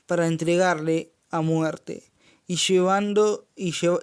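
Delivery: solemn scripture read to the church. Acted. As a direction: read it out to the congregation. Reads the scripture aloud.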